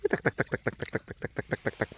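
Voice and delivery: soft breathy whisper calling a duck; whispered coaxing. Real, not acted. Farmer coaxing his duck toward worms, whispering.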